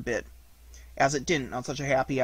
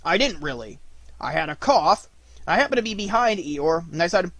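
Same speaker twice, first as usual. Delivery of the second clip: Tigger voice; 4 semitones higher, 4 dB louder than usual. Acted. Tigger explaining.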